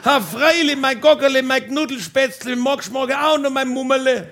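wife's high calling reply, laughing at the start; wife calling back sweetly to her husband. Retold or imitated. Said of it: "sie hat zurückgeschrien".

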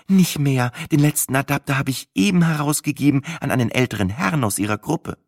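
helpful farmer's wife. Acted.

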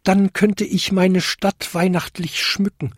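high, hopeful goblin voice; small high-pitched eagerness; piping. A narrator's reading. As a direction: pipe it up like a tiny creature. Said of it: "piepste der kleinste Winterkobold".

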